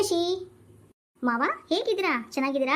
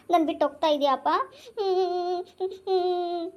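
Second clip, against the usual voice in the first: high, whimpering sobs at a parting; little teary hums, trying not to cry; sobbing daughter; 3 semitones higher than usual. Acted. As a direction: daughter sobbing as her father leaves. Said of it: "ಹಾಗೆಲ್ಲ ಅಳ್ಬಾರ್ದು ಮಗಳೇ".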